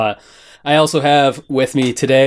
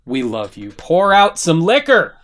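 recited song lyrics. Acted. Host opens the podcast with a rapper's lyrics, spoken tribute. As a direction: declaim the lyrics as a heartfelt ode.

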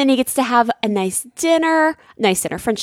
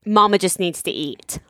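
mock-calm husband, pitched down; calm, caring; 5 semitones lower than usual. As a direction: imitate his gentle soothing. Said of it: "but he was so calm and so caring".

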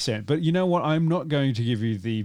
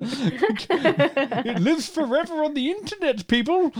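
laughing; slower than usual. Real, not acted. Laughing while speaking.

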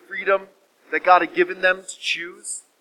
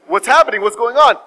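louder, urgent questions; alarmed questioning; 4 semitones higher, 6 dB louder than usual. Acted. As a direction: demand to know, mildly alarmed. Noah reacts to son's alarm.

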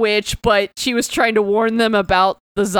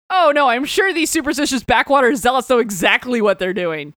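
dry, mocking sarcasm; sarcastic. Shown as a demonstration. Talking axe mocks the witch hunters, sarcastic. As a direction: sneer it as fake agreement. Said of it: "That was sarcasm".

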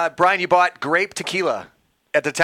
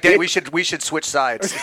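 laughing quote; 2 semitones lower, slower than usual. Retold or imitated. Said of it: "he's like".

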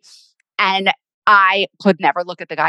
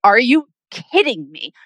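disbelief; 5 semitones higher than usual. Retold or imitated. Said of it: "I was like".

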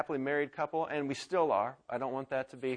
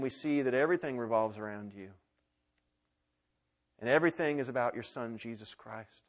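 closing prayer. Acted. Pastor praying for the congregation, earnest prayer.

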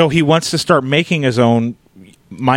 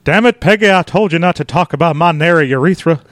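indignant cartoon husband impression; Hank Hill; 2 semitones higher than usual. Husband scolding Peggy, put-on indignant voice. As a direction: scold as an embarrassed cartoon dad. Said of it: "Dueling Hank Hills".

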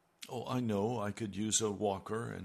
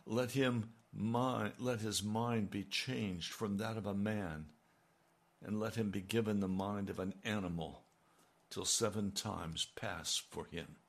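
measured, solemn reading of scripture. Acted. Preacher reading the Bible verse to the congregation, solemn.

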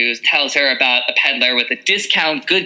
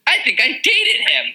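wry aside. Retold or imitated. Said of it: "And she's like".

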